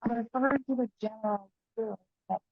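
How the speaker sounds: muffled voice, bad mic; muffled, as through a cloth. Real, not acted. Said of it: "your audio is pretty muffled".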